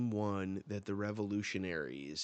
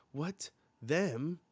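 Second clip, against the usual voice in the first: startled mock shock; 8 semitones higher, 5 dB louder than usual. Giant hears of attack.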